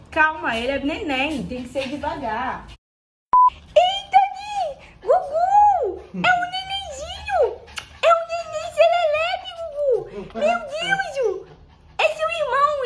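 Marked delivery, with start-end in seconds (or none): 3.7-12.8 excited squeal. Real, not acted. Owner squealing as the puppy meets her dog.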